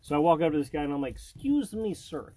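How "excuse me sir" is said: higher, mock Russian-accented politeness; hammed-up Russian stereotype accent, Gru-like; Mishka Mishka voice. To a store clerk, in a mock Russian accent. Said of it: "talking in your Mishka Mishka voice".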